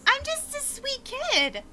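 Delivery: put-on high, quick innocent child; innocent kid denial. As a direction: play dumb, very sweet.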